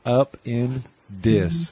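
slow, split "Up in dis"; spelled-out plate name. Shown as a demonstration. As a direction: say "Up in dis" slowly, word by word.

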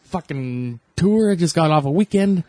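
hammed-up grumbling comic; irate Bill Burr. Friend imitates Bill Burr griping to his listeners, mock irate. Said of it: "he's pretty irate most of the time".

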